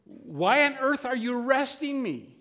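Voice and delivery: high, incredulous retold outcry; indignant protest. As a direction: play the outraged driver demanding a reason. Indignant driver protesting her arrest.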